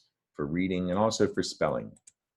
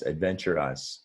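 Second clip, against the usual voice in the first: adventure us with a clear gap before us; syllables split; 2 semitones lower than usual. Shown as a demonstration. Teacher shows the last syllable to reader. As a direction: break it into adventure, then us. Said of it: "you just say us".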